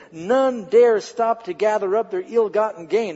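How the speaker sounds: measured, emphatic story reading; dramatic narration. A narrator's reading. Preacher reads the temple story to listeners, dramatic narration. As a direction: read it out with solemn drama.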